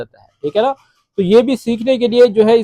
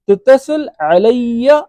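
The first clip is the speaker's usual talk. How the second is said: slow demo; 3 semitones higher, much slower than usual. Shown as a demonstration. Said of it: "आगे बोलेंगे".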